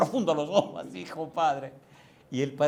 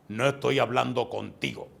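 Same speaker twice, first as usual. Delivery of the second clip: slow, lower voice for the stranger; mildly imitated grave stranger; 4 semitones lower than usual. Stranger rebuffing the young preacher, slow and grave imitation. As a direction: lightly voice a grave, deliberate rebuff. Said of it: "Y me dice él así".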